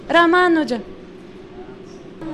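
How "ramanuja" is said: "Ramanuja" louder, with a long MAA; corrected name. Shown as a demonstration. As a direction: firmly model "Ramanuja" as ra-MAA-nuja. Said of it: "you're mistaking his name".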